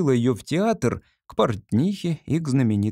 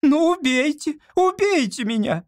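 hysterical shout. A narrator's reading. Olga hysterically screaming at the artist to kill her. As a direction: scream it at him in despair. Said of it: "крикнула Ольга Ивановна".

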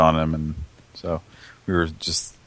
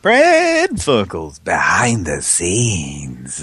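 mock announcer; 3 dB louder, much slower than usual. Cohost echoing the show title as a booming announcer. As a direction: drag out the show name like a TV announcer.

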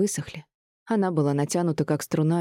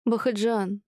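shouted name, higher; calling after husband; 5 semitones higher, slower than usual. A narrator's reading. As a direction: call him back as he storms out. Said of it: "кричала вслед мужу". (зовёт мужа вслед, громко)

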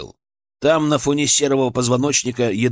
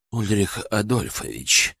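nervous creaky voice; voice cracking; 3 semitones lower, 4 dB quieter, slower than usual. A narrator's reading. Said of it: "голос его предательски скрипнул".

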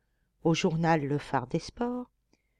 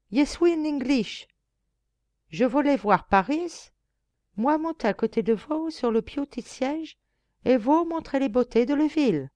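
put-on higher, broken French in a thick English accent; mock English accent; 7 semitones higher, 3 dB louder than usual. Reporter poses as an English tourist beside the coachman, thick English accent. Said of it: "en imitant un fort accent anglais".

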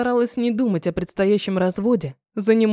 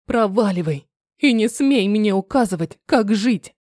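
angry retort. Acted. Daughter shouts back at mother.

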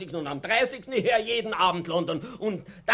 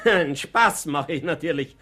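laughing; 3 semitones lower, 4 dB louder than usual. Acted. Covering a risky remark laughing.

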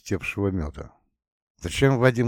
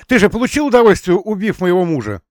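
high, loud, fast shrieking accusation; furious accusation; 10 semitones higher, 10 dB louder, faster than usual. Acted. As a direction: fling the accusation at him. Emilia accuses Vasily of murder.

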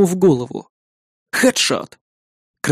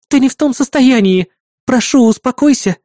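higher and louder plea; firm insistence; 8 semitones higher, 4 dB louder than usual. A narrator's reading. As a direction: insist firmly, loudly. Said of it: "уверенно повторила помощница".

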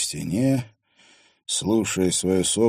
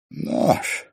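changed voice. Acted. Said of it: "Голос Финна сильно изменился".

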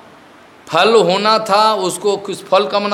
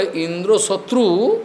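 इंद्रो शत्रु with शत्रु lifted and held; emphatic mantra reading. Shown as a demonstration. Teacher showing the other meaning, शत्रु stressed with a rise. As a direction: push शत्रु upward at the end of इंद्रो शत्रु. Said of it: "और यदि जोर से बोले".

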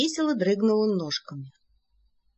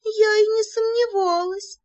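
much higher squeaky voice; 13 semitones higher than usual. Acted. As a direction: squeak it with pursed lips. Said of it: "пропищала". (пропищала)

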